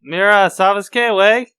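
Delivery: mock Spanish. Echoing a friend's Spanish, exaggerated Spanish accent. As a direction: drag out the Spanish, pushed up and loud.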